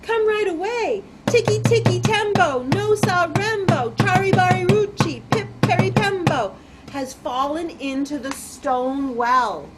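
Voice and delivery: high, loud rhythmic alarm, easing at the end; shouting. Acted. Chang fetches the old man, urgent shouting. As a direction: shout the long name urgently for help. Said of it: "shouted Chang".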